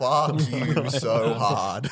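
drawn out, very slow mock curse. To the friend who used the take, slow mock curse. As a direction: stretch each word in joking outrage.

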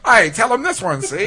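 put-on old gangster movie talk, see; tough-guy cop from the thirties; 1930s beat cop. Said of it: "Nineteen thirties cop".

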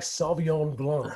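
slow, drawn-out mock French wine name; imitated French accent. Admiring how a friend said it, slow imitated French accent. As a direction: mimic his French accent, taking it slowly. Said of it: "And Mark said it right".

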